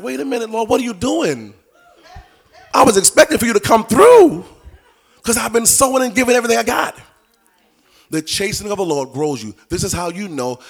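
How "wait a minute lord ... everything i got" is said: higher, laughing mock complaint to God, rising louder. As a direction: whine at God through laughter. Believer protesting God, laughing.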